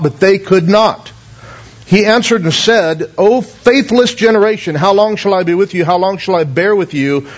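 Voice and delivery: measured Bible reading voice; reading Mark aloud to the church; scripture reading. Acted. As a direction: read the passage steadily to the congregation. Scripture read aloud before sermon.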